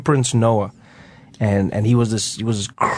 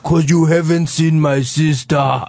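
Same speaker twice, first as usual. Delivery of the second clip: deadpan punchline; 4 semitones higher, slower than usual. Retold or imitated. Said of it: "my grandfather's like".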